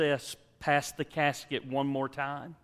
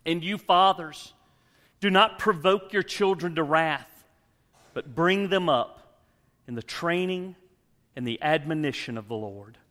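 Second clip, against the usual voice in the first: scripture reading; 4 semitones higher, 7 dB louder than usual. Acted.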